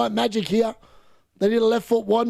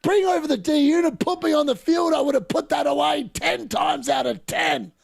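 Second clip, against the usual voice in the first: exasperated; 5 semitones higher than usual. Real, not acted. Frustrated fan after the miss.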